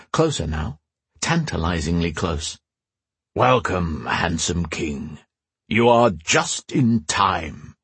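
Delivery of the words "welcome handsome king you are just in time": enchantress voice. Acted. Enchantress greets the captive king.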